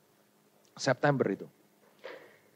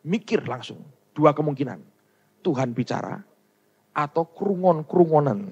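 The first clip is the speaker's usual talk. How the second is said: ordinary delivery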